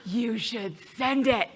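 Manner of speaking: soft, slow whisper with a giggle; hushed tempting praise; flattering inner voice. Acted. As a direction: coax her sweetly into sending it. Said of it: "Let's go to the other one".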